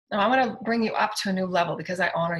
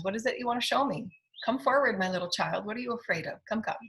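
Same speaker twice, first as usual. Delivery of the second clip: tender coaxing; 3 semitones higher, 3 dB quieter than usual. Acted. Coaxing the shadow as a child.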